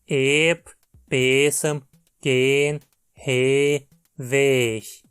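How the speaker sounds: each word read out crisply in Dutch; Dutch example words. Shown as a demonstration. Teacher reads Dutch examples, each word clearly. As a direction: model the long vowel before GH.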